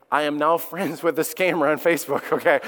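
amused laughing aside. Real, not acted. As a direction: laugh it out in disbelief.

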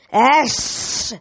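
monster scream. A narrator's reading. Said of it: "it screamed".

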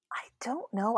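a sigh, then a whispered I don't know; doubtful whispered shrug. Real, not acted. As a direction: breathe it out, unsure. Asked a hard judging question.

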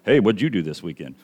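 low, soft, offhand chat; mock a movie's easy small talk; casual small talk. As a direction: toss it off quietly, like idle chat. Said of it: "guys sitting in a helicopter and they're like".

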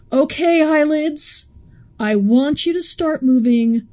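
lightly voiced drill commands to eyelids; bossing your own eyelids, hammed-up; mock self-instruction. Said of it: "give yourself directions".

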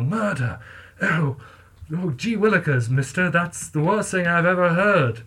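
lightly voiced gee-whiz kid; a hint of a shocked old-timey kid; wholesome 1950s kid. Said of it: "people were like".

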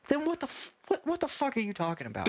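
high, disbelieving what the fuck; guy behind you baffled by his buddy; incredulous moviegoer. Retold or imitated. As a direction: squeak it in amazed disbelief. First guy voiced, incredulous.

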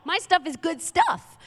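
high, loud indignant snap at a shopper; indignant retort. Retold or imitated. Seller snapping back at a garage-sale critic, indignant. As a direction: defend your stuff with outrage. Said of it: "And I'm like".

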